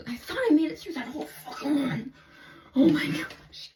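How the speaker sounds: high, loud laughing through the words. Real, not acted. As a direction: laugh it out at yourself. Laughing at herself after rant.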